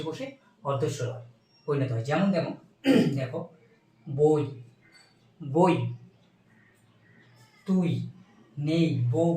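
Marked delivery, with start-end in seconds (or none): 4.1-5.7 বই said loud with the ই cut short, no drawn tone; clipped diphthong demo. Shown as a demonstration. Teacher demonstrating বই to students, loud and clipped. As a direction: say বই clearly, ending sharply on a half vowel. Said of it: "এই যে বই কথাটা বলছি".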